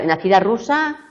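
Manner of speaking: ordinary talk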